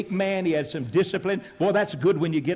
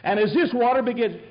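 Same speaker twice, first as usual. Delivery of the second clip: mocking retelling; 4 semitones higher than usual. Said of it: "Let's consider your viewpoint".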